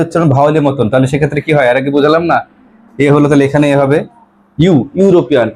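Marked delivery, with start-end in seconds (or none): 4.6-5.5 "ইউ" alone as "you", then the whole "ইউরোপিয়ান"; opening-sound demonstration. Shown as a demonstration. Teacher explaining the article before European, sounding out "ইউ" then "ইউরোপিয়ান". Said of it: "ইউ উচ্চারণ আসছে".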